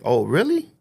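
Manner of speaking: a high, defiant oh really; sarcastic challenge to the captain; retorting to the captain with mild mock disbelief; mock surprised.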